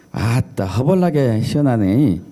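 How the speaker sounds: drawn-out Jeolla accent exclamation; Jeolla dialect. Shown as a demonstration. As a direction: imitate a Jeolla local. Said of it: "전라도 어떻게 하죠?".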